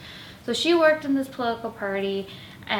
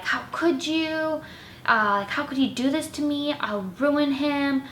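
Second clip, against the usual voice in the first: imitating a hysterical roommate, pitch raised; mock her frantic phone call; 5 semitones higher than usual. Roommate on the phone to her friend, mock hysterical.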